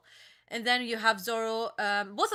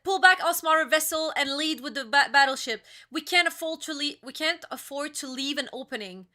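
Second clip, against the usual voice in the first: reading an admiral's order; 3 semitones higher, 4 dB louder than usual. Retold or imitated. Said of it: "It's like".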